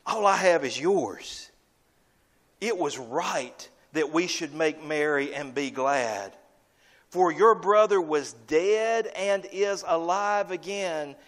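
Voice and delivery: a lightly voiced tender father, slowing down; father's gentle answer. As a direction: reassure your son gently. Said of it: "The father says to him".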